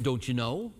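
lightly put-on Minnesota accent; a hint of a Minnesotan catchphrase lilt. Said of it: "Minnesota accent".

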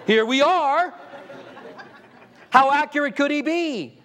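real laugh through the words; laughing in disbelief. Real, not acted. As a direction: chuckle as you mock the failed doomsday date. Laughing at failed prophecy.

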